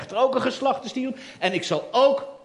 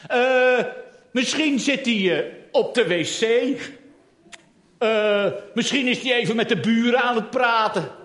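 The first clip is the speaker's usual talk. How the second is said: mocking; 3 semitones higher, 4 dB louder than usual. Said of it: "Elia spot met Baal".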